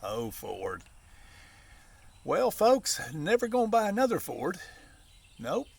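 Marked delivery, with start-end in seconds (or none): 2.2-5.7 high indignant vow. Real, not acted. Vowing off Ford, raised voice.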